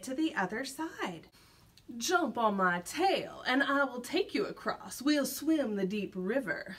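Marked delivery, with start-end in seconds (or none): 2.0-6.7 sly fox. Acted. Sly fox coaxes the gingerbread man across. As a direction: lure him gently onto your tail. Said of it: "said the sly old fox".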